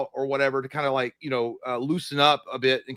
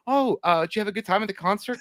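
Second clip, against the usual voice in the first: higher, casual imitation of playing dumb; feigned innocence; 5 semitones higher than usual. Hungover man testing his partner next morning, feigned innocence. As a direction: ask it breezily, as if nothing happened. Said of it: "I was trying to act like nothing happened".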